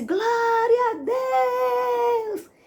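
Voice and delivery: put-on very high, drawn-out shout. Retell the moment after wiping away your tears when you cried out to god, retelling a shout. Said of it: "eu dei um grito e disse".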